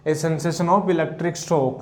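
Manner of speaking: very slow, each word spaced; slow dictation. Shown as a demonstration. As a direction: dictate slowly for students to copy. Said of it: "dictating notes slowly".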